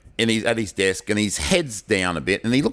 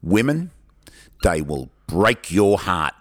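slow, dramatic delivery sinking low at the end; mock-grave heartbreak, dragged out word by word; jilted little boy laying down hard-won wisdom; world-weary pronouncement; 3 semitones lower, slower than usual. Heartbroken nine-year-old's grave pronouncement.

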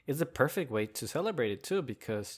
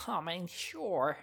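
higher, slow, drawn-out delighted acceptance; grateful delivery driver; 7 semitones higher, much slower than usual. Retold or imitated. Driver accepting a Gatorade from vlogger, imitated grateful relief. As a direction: imitate a relieved worker saying yes.

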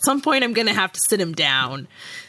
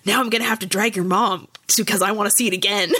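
fast, eager, a bit higher dad quote; imitating dad pumped to see it again; excited dad; 5 semitones higher, faster than usual. Dad pumped about Rogue One, fast eager quote. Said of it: "He was like".

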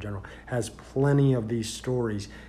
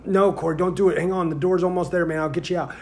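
much higher, louder frantic begging; desperate plea; 6 semitones higher, 5 dB louder than usual. Retold or imitated. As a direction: yell at him to hold it in. Begging prisoner not to vomit.

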